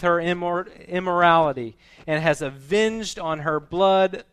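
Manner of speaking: loud, forceful proclamation from the Bible; scripture reading, preached. Real, not acted. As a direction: declare the verse with conviction.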